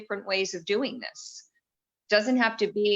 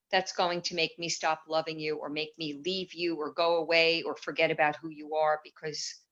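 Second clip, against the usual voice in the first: tender self-talk. Shown as a demonstration. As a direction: speak as if holding a scared child close. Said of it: "if we can turn and say".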